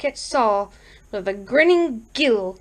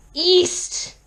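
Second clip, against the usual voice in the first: high, sudden one-word yell; exasperated yell; 8 semitones higher than usual. Acted. Frantic caller correcting the sergeant on his address, yelling. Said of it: "Harold yelled".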